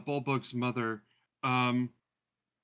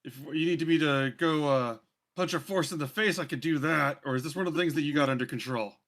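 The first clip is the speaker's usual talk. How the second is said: Bulbug's mother; 2 semitones higher, 4 dB louder than usual. Acted. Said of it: "she says".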